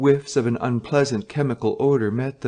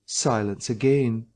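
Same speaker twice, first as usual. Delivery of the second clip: usual speaking voice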